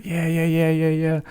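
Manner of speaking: high, quick string of yeahs; tired agreeing. Retold or imitated. Agreeing wearily to the police in a high voice. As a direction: brush it off with yeahs. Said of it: "I'm like".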